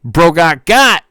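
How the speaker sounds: slow mock gloat; slow taunting chatter. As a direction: drag out the taunt like a smug viewer. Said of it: "corrected reading of the chat message".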